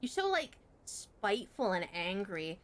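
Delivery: high, sing-song taunting; mocking Yappy. Mimicking the tutor calling her aggressive, in a high mocking voice. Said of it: "she'd be like".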